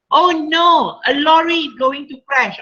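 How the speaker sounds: frightened cry. Shown as a demonstration. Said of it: "this is what I replaced with".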